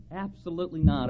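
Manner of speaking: ordinary delivery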